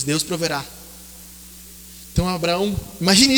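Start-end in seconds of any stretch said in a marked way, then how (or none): 0.0-0.6 hushed Abraham. Acted. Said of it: "Abraão diz".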